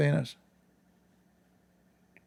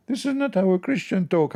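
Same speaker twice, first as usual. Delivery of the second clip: higher-pitched mimicking of a critic; mock scolding; 5 semitones higher than usual. Host parroting critics who judge his Christian talk, mocking.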